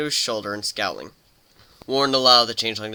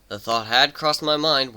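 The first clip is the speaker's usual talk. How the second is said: stated flatly; 3 semitones higher, slower than usual. Acted. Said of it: "Warren stated flatly".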